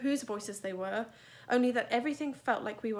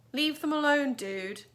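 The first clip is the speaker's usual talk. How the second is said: louder, higher warning to back off; raised firm warning; 6 semitones higher, 7 dB louder than usual. Acted. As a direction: tell the bullies to back off. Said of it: "said Amos".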